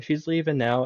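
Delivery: mock little girl saying goodbye; little sister. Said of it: "she's like".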